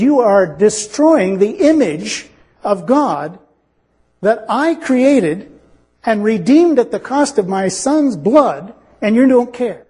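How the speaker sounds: slow, weighty words of God; measured, drawn-out indictment; solemn rebuke. Acted. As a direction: deliver a divine charge slowly, word by word. Preacher voices God rebuking the unrepentant.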